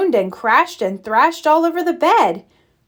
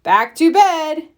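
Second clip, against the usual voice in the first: higher, louder call back; yell; 4 semitones higher, 3 dB louder than usual. Acted. Fred echoing Ted's call, a mild yell. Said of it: "yelled Fred".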